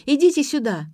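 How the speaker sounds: high, loud call from another room; shouting from afar. A narrator's reading. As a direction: call out an apology down the corridor. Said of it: "закричала из глубины квартиры".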